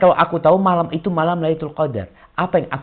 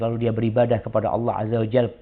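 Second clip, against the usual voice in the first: ordinary talk, nothing marked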